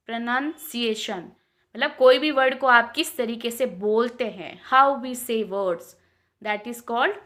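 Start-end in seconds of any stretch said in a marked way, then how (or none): 4.7-6.0 slow. Shown as a demonstration. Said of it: "slow model phrase".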